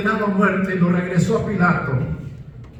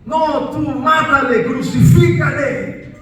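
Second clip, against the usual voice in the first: crowd shout; 3 semitones higher than usual. Retold or imitated. Preacher voicing the crowd answering Pilate, demanding shout. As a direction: throw it back at Pilate.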